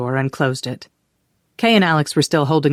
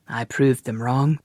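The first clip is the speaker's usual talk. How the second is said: proud; 3 semitones lower than usual. Acted. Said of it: "such pride in his voice".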